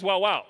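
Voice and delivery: two loud barked syllables; Peruvian dog bark. Shown as a demonstration. Speaker showing how dogs sound in Peru, barking. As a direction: bark it as a word, twice. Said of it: "the dog in Peru says".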